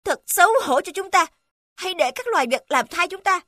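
put-on high, angry old king's cry; shouting old king. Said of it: "Ông ta hét lên". (giọng vua già hét lên đầy hổ thẹn)

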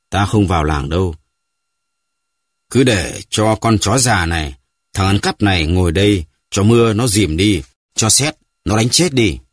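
put-on panting old man. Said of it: "Ông lão vừa thở hổn hển vừa nói".

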